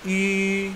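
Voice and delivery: "I" blended with U, held high and level; rounded ü sound. Shown as a demonstration. Teacher recapping the blend, high rounded "I". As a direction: say "I" long through a pout. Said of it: "gabungan antara I dan U".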